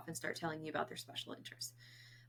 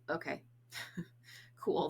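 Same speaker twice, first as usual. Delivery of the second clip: disinterested okay. Retold or imitated. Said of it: "kind of that, like".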